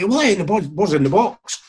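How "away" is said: higher, louder mock shout from the pitch; retold shout. Boys shouting on the football pitch, retold shout. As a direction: imitate boys shouting for the ball. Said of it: "boys are shouting".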